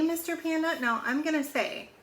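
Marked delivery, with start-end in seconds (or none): 0.0-0.8 high octopus question. A narrator's reading. Octopus asks, pitch jumps.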